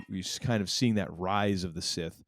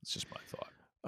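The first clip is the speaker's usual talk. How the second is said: unvoiced whisper; 9 dB quieter than usual. Real, not acted. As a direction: whisper it as an aside. Trailing aside.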